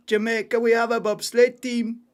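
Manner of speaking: loud, excited film-quote delivery; Cool Runnings quote. Pretend. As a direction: shout it like the bobsleigh coach.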